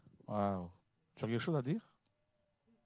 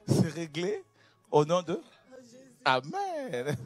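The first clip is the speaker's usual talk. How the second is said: rit en disant les mots, plus fort; en riant; 7 semitones higher, 6 dB louder, slower than usual. Real, not acted. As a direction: termine la prière dans un éclat de rire joyeux. Conclut la prière en riant. (le pasteur conclut la prière en riant)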